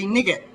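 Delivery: "nigget" as NIG-it, short i; spelling pronunciation. Shown as a demonstration. English speaker joking on spelling logic, short-i "nigget" for night. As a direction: sound the g in "nigget", as night is spelt. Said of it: "night without a K should be".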